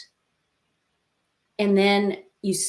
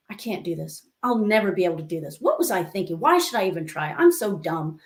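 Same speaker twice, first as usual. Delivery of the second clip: sighing, low-pitched self-defeat; mildly acted discouraged kid; sigh, then grumble down a negative spiral; frustrated child; 2 semitones lower than usual. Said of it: "She was getting all frustrated".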